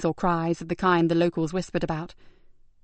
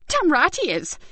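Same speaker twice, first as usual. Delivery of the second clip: dry bark; 9 semitones higher than usual. Acted. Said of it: "a dry bark of a laugh".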